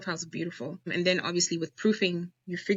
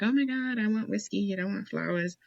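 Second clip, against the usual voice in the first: mock complaining; 3 semitones higher than usual. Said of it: "how women always complain".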